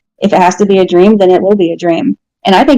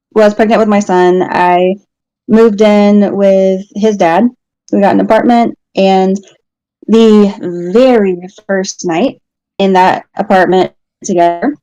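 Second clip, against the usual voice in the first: ordinary talk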